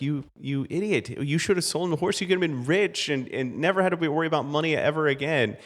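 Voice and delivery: lightly voiced villagers scolding a foolish neighbor.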